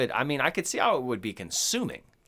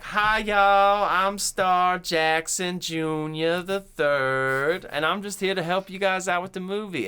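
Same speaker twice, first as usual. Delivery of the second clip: flamboyant eccentric, high and loud, drawn-out introduction; Star Jackson Junior; 7 semitones higher, 5 dB louder, slower than usual. Acted. Eccentric dude in the doorway greeting the Gremlins writers, flamboyantly. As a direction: make a big showy entrance, stretching the name. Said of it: "they just had some eccentric guy in there".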